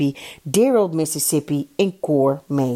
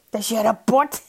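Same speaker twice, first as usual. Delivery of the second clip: higher voice breaking into a giggle; giggling; 6 semitones higher than usual. A narrator's reading. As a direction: tease through a giggle. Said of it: "giechelde Kees".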